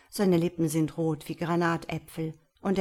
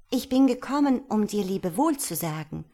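raised call that eases off; 3 semitones higher, 4 dB louder, faster than usual. Acted. Swallow come to bid the prince farewell, lightly calling out. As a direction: call up, then settle by the end. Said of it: "rief sie".

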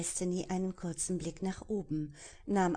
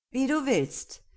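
menacing pirate; 8 semitones higher, 7 dB louder than usual. Acted. Pirate accepts the fight.

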